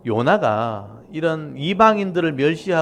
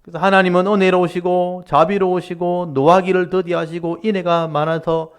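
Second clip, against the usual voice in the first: louder mock praise; sarcastic retort; 5 semitones higher, 5 dB louder than usual. Jonah throwing God's mercy back sarcastically. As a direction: praise said as a sneer. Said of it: "비꼬면서 얘기하는 거예요".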